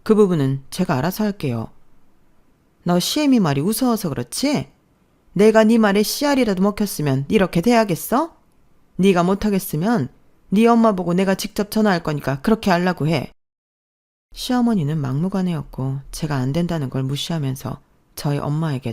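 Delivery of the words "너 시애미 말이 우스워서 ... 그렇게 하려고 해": bossy mother-in-law. Acted.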